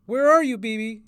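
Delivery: high, loud opening, dropping on the name; worried searching call. A narrator's reading. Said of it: "she called".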